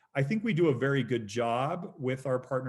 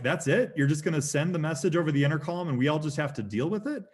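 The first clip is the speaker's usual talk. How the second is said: indignant protest; 5 semitones higher, 4 dB louder than usual. Retold or imitated. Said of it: "And I'm like".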